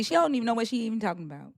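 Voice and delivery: quick, natural Southern accent. Shown as a demonstration. Host says just talk like me, quick Southern accent. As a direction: rattle it off in an easy Southern accent. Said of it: "just talk like me".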